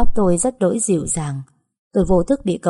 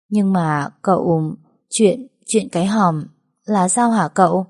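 slow, hesitant, stammering; timid trembling question; slower than usual. Acted. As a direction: ask shyly, half afraid. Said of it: "run run e dè hỏi".

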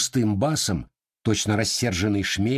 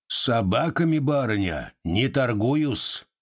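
cold and dignified; 2 semitones higher, slower than usual. Acted. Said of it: "сказал он холодно и с достоинством".

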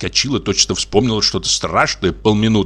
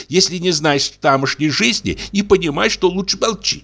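scolding wife; 9 semitones higher than usual. Acted.

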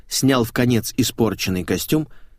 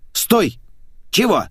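sharp call; 10 semitones higher, slower than usual. Acted. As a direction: stop her with a shout. Quarrel between man and maid.

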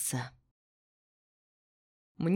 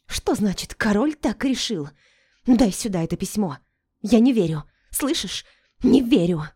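loud, high angry protest; furious; 4 semitones higher, 6 dB louder than usual. A narrator's reading. Melinda furiously refusing the king's letter, loud and high. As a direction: demand it furiously, refusing to believe.

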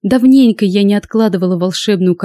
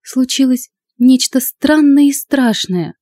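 hesitant, fearful; 6 semitones higher, slower than usual. A narrator's reading. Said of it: "неуверенно проговорила она".

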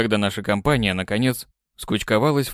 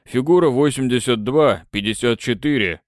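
ordinary talk, nothing marked

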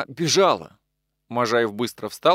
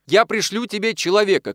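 higher call over the shoulder; 8 semitones higher, 4 dB louder than usual. A narrator's reading. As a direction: shout back while leaving. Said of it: "крикнул, выходя". (громкий окрик на ходу)

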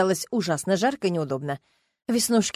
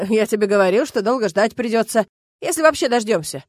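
laughing told-you-so; mock her through a laugh; chuckling jibe; teasing laugh; 4 dB louder than usual.

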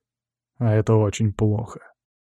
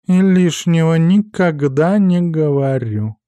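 offended cat, slow and huffy; snooty bored cat; 6 semitones higher, 5 dB louder, slower than usual. A narrator's reading. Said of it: "обиженно фыркнул кот". (обиженный кот, фыркая)

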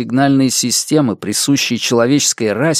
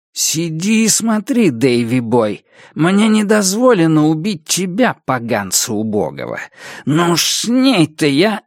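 higher, menacing taunt; злобный коротышка; 5 semitones higher than usual. Acted. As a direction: order him to watch, full of threat. (злорадная угроза, повышенным тоном)

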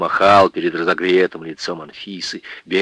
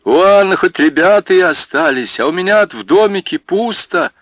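wailing lament; 10 semitones higher, 4 dB louder than usual. Acted. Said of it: "заголосил".

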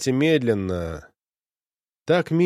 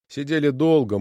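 ordinary delivery

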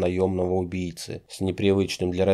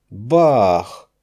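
loud spoken gunshot; gunshot bang; 7 dB louder than usual. A narrator's reading. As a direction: bark the shot out like a pistol. Gunshot from the doorway. (громкий выстрел «Бах!»)

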